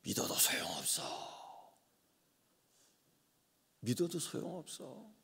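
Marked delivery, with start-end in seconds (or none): 0.0-1.3 bitter whisper. Retold or imitated. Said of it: "이런 얘기 하잖아요".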